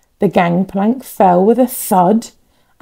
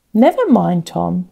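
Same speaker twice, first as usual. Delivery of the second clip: gently. Acted. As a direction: soothe the disappointed boy.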